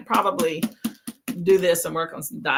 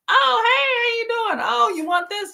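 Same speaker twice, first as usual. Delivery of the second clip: coaxing a patient; 13 semitones higher than usual. Retold or imitated.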